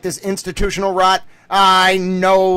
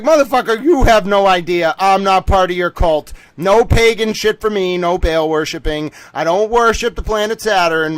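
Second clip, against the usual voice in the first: mock yelling retort. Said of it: "I was yelling a little bit there".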